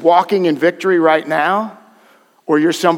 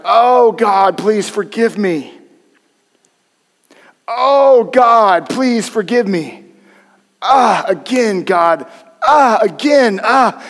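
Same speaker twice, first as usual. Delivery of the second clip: mock wailing plea, much higher and louder; mock desperate plea; 6 semitones higher, 5 dB louder, much slower than usual. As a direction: ham up a sinner begging God, going through the motions. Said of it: "they're like".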